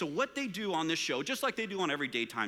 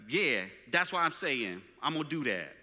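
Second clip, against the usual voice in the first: put-on street accent. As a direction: imitate a defiant teen's street accent. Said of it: "this street accent thing".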